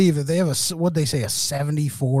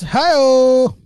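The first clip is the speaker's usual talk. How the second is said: hi-oh call; 9 semitones higher, 6 dB louder than usual. Acted. Joke punchline call.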